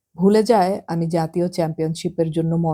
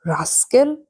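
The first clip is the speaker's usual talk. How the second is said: raised angry cry of one word; heartbroken scream; 6 semitones higher, slower than usual. A narrator's reading. Nitu charging at Nentu, raised angry cry. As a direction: hurl the insult, higher. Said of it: "বুক ফাটা চিৎকার করে".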